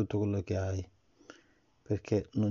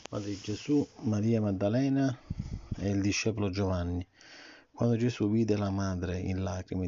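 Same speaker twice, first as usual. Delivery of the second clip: put-on reading to a child. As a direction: read the story gently to the child. Parent reads Bible story. (lettura a un bambino)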